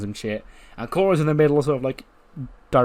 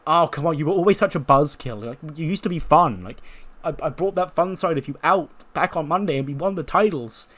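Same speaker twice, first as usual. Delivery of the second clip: playful coaxing; 4 semitones higher than usual. Acted. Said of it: "Cora's gone".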